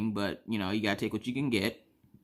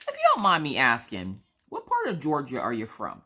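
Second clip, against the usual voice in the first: higher-pitched, tactful question; tentative, polite lift at the start; polite, careful asking; 3 semitones higher than usual. Retold or imitated. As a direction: ask gingerly so it won't sound rude. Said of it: "trying not to be rude when I asked".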